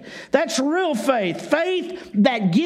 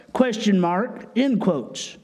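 dictating; 3 semitones lower than usual. Shown as a demonstration. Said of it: "now notice that".

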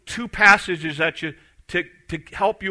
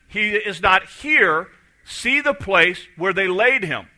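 slow scripture reading; 3 semitones higher, slower than usual. Shown as a demonstration. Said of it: "But it says".

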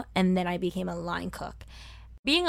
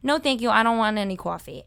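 louder, unguarded Brooklyn refusal; slipped-out Brooklyn accent; 4 dB louder, faster than usual. Retold or imitated. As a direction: let the Brooklyn slip out on "coffee". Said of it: "I think I slipped out".

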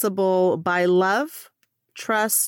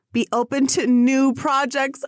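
emotional; 4 semitones higher than usual. Real, not acted. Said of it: "I'm gonna get too emotional".

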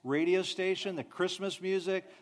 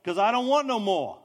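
tired mom; 4 semitones higher, 6 dB louder than usual. Retold or imitated. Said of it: "And the mom said".

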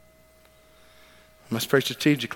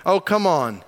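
disgusted; 6 semitones higher, 4 dB louder, slower than usual. A narrator's reading. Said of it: "Disgust filled the demon's voice".

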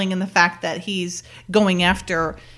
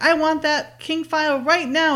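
high-pitched mock yell; retold yelling; 8 semitones higher than usual. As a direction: imitate an impatient boss's demand. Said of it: "And he's yelling".

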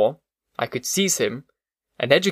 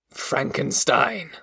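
brooding monster; much slower than usual. Acted. Monster hears his enemy's name.

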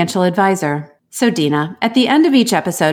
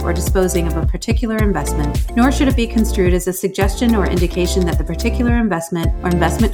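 legal fine print read-out; fast legal disclaimer. Acted. Disclaimer read over music.

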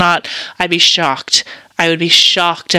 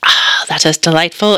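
whisper. Real, not acted. Sipping tea, savouring it.

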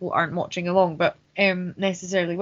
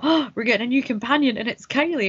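higher, eager imagined reaction; excited retold thought; 5 semitones higher than usual. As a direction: relive the thrill of a new companion. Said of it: "I thought".

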